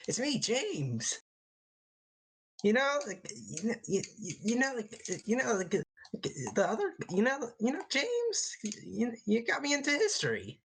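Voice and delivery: stammering civilian alter-ego voice; halting, put-on everyman voice; James. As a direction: fumble through it with swooping pitch. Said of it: "like, the civilian voice?".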